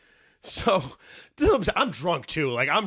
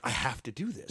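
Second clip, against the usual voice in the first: inner comedian voice; 4 semitones lower, 8 dB quieter than usual. Retold or imitated. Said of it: "The comedian in me is just like".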